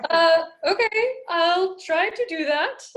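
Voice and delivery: student does the voice on request, hooting and high; Julia Child. Pretend. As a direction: try on the old TV cook's voice. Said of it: "talk like Julia Child for a moment".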